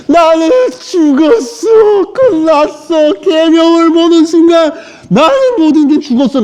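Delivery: mock a man crying that he's finished; 과장된 울부짖음. 바울의 절망 과장 재연. (과장되게 우는 바울 흉내)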